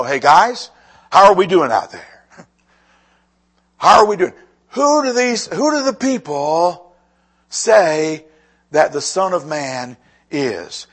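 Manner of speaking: loud, high, eager Jesus asking his friends; Jesus loudly asking the disciples how they're doing; Jesus voiced. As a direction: call out to the disciples like a pollster.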